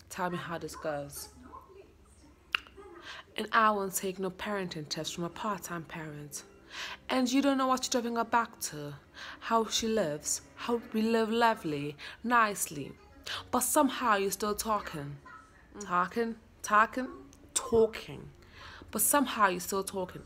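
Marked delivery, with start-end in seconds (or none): 3.4-15.2 put-on rehearsed lines in a British accent. Learning lines for viewers to judge, British accent. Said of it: "I have to do a British accent". 15.8-20.2 practising a word in a British accent. Shown as a demonstration. Actor drilling a line, British accent. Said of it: "I have to do a British accent".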